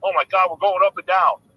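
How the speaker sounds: loud exclaim as a pirate captain. Acted. Joke teller quoting the pirate captain amid big waves, mild loud alarm. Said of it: "pirate captain's like".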